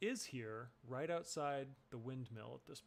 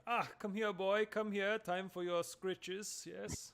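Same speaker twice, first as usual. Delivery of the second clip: put-on higher, louder baby talk to a dog; doting dog voice; 6 semitones higher, 5 dB louder, slower than usual. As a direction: coo at the dog like a pet lover. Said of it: "Gottram's going to be like".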